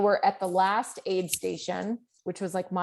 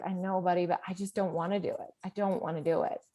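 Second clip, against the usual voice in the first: tired; 6 dB quieter, faster than usual. Retold or imitated. Tired mom answering crying son.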